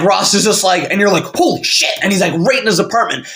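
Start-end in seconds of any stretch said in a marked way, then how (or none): 1.3-1.9 high-pitched mock shock; shocked reaction. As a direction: react like a stunned viewer, pitch jumping up. Viewer's shocked reaction, acted out.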